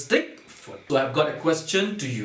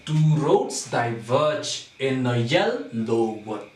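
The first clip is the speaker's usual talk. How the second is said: slow, with weight on "roads", "verge", "yell" and "wood"; scanned in feet; slower than usual. Shown as a demonstration. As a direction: beat out "Two roads diverge" foot by foot. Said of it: "We have to divide first into".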